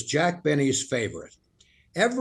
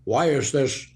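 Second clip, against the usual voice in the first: Nixon impression; 3 semitones lower than usual. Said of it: "Nixon turned to his wife, Pat, and said".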